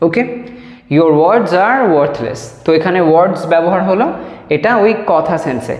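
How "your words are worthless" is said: slow dictation. Shown as a demonstration. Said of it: "teacher models the full sentence".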